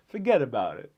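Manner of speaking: lightly mimicked Italian-American New Yorker accent. Streamer crediting Italian-American New Yorkers, imitating their accent. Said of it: "The Italian Americans".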